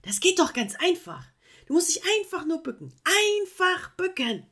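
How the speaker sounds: high, loud insistent explaining; lecturing. Acted. Koala showing the sloth how easy tidying is, insistent. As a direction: explain it as if it's obvious.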